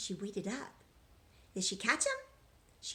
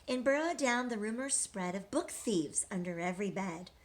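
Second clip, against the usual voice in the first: rhythmic storybook read-aloud; reading to children. A narrator's reading. Teacher reading a rhyming picture book to children, sing-song. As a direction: read the rhymes to the class, lilting.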